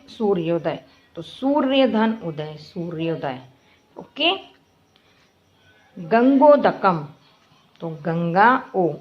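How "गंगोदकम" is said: गंगोदकम said slowly and clearly; slow pronunciation. Shown as a demonstration. Teacher showing students how गंगोदकम sounds, slowly. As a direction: spell out गंगोदकम at a slow pace. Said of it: "उ का उच्चारण है".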